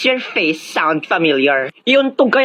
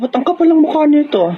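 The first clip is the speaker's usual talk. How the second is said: indignant shriek at the customer; angry vendor shout; 8 semitones higher than usual. Acted. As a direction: snap at the rude kid, pitched way up. Vendor yelling at kid.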